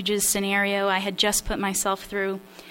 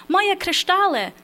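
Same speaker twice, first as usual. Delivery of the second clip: high, slow cry of alarm in Polish; mother's yell; 10 semitones higher, 6 dB louder than usual. Acted. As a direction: shriek it like a mother guarding her crystal. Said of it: "drawing out the yell".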